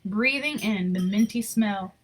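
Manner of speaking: even, expressive read-aloud storytelling; story narration. Acted. Reading a Christmas picture book to children, storytelling voice. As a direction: tell the story to the kids gently.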